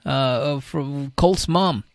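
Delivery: mock her like a shrill gossip; high mocking voice. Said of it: "I'm like".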